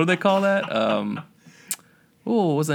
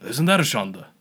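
put-on Yiddish accent; 4 semitones higher, 4 dB louder than usual. Jewish grandma bit continues.

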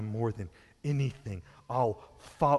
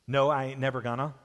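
Southern drawl; faster than usual. Retold or imitated. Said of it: "But in the South, we tend to ignore that rule".

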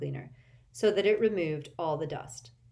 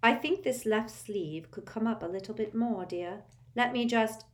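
fussy seamstress; 5 semitones higher than usual. A narrator's reading. Fussy seamstress fitting robes.

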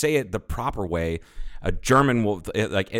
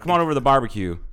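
southern redneck; 4 semitones higher, faster than usual. Pretend. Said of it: "Is that what they say in the South?".

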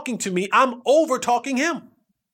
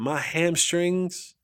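pained groan; 4 semitones lower, 4 dB quieter, much slower than usual. Retold or imitated. Injured teammate explains.

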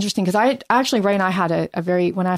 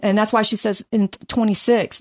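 ordinary talk

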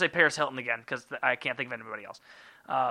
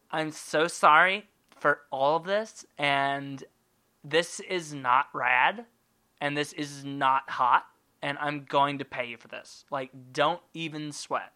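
slow, airy whispered celebrity drawl; Paris Hilton voice; slower than usual. Retold or imitated. Paris Hilton apologising to the survivor, slow airy whisper. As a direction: breathe it like a careless heiress. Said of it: "Paris Hilton voice".

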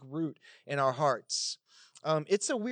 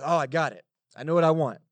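mock eureka; 3 semitones lower, 7 dB louder, faster than usual. Shopkeeper's eureka in retold story.

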